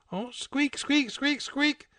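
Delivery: very high squeaks; squeaking mouse. Acted. Mouse squeaking at the cat, very high squeaks. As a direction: squeak like a tiny cartoon mouse.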